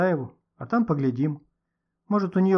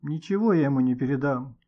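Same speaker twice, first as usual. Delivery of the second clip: usual speaking voice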